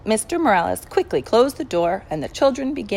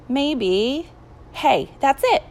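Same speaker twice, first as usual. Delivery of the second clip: sudden idea; 6 semitones higher, much slower than usual. A narrator's reading. Man suddenly hits on an idea.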